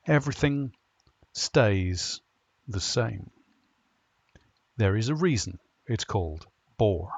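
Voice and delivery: lightly performed captain's log monologue; comic story narration. Acted. Narrator recounting the uncle's crimes and the ship's plight, comic storytelling. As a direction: read it as a dry comic monologue, pausing for punchlines.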